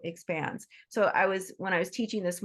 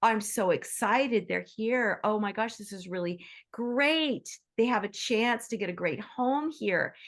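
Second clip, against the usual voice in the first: excited gushing. Retold or imitated. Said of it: "when we see somebody else".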